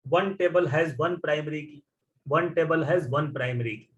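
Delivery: one table has one primary key, each word slow and spaced; slow dictation. Shown as a demonstration. Teacher dictating the rule to the class, slowly. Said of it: "पिछले class में सिखाया था".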